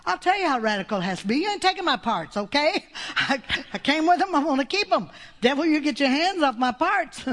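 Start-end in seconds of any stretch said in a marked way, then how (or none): 1.4-7.2 defiant, raised-pitch rebuke. Acted. Preacher ordering the devil off her body, defiant. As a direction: tell the devil off, feisty and emphatic.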